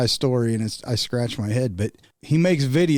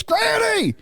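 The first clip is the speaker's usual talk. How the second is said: very high, stretched-out mimicked shout; imitated far-off yelling, high and slow; yelling from the yard; slower than usual. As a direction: holler a correction across a yard. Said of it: "somebody in the yard goes".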